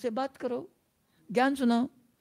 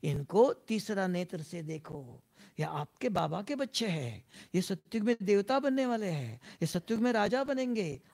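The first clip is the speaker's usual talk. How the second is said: soft inner voice; 2 semitones lower, 6 dB quieter than usual. Retold or imitated. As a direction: gently remind yourself as the mind would. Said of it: "तुरंत बुद्धि कहेंगे".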